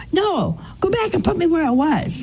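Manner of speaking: high, indignant mock demand; retold anger. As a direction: imitate a cross patient giving orders. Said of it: "he was so mad".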